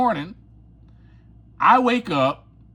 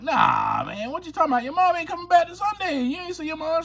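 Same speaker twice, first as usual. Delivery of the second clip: dismissive brush-off; 13 semitones higher, faster than usual. Retold or imitated. Dismissing girlfriend's worry.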